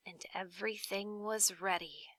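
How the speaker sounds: whispered, barely voiced; hushed whisper. A narrator's reading. Narrator whispering the tense moment before firing. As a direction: breathe it out as a secret.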